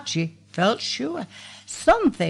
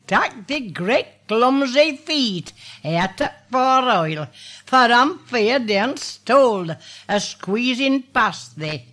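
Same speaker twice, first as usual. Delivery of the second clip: lively Yorkshire recitation, voicing the wife and husband; Yorkshire dialect recitation. A narrator's reading. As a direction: recite it like an old Yorkshire storyteller. Recites dialect story with voices.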